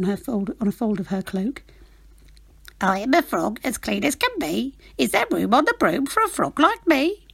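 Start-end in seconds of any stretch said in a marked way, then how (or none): 2.8-7.3 croaking frog. Acted. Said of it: "then said with a croak".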